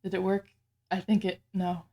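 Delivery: talking with the hiccups; hiccuping between words. Real, not acted. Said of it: "And now I got the hiccups".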